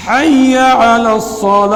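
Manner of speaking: slow call to prayer, الصلاۃ drawn out without a final t; correct adhan pronunciation. Shown as a demonstration. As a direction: chant حی علی الصلاۃ with a clear ayn in علی. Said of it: "صحیح تلفظ یہ ہے".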